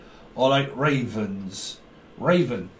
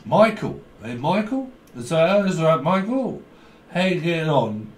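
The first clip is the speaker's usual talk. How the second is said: put-on drunk calling; 2 semitones higher than usual. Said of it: "Someone's pissed".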